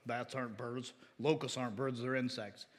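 low, quiet mock of a smug skeptic. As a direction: lightly sneer it out as the know-it-all critic. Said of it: "don't let them ridicule you".

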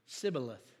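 Sibboleth said with a plain "s" for "sh"; mispronunciation. Shown as a demonstration. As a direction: say Sibboleth with an "s" at the start. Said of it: "the person would pronounce it".

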